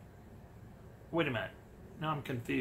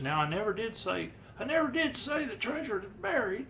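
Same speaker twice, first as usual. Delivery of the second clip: winded old-timer impression, lifting higher; Fenn; 5 semitones higher than usual. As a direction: lightly imitate him as if out of breath. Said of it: "It's my Fenn impression".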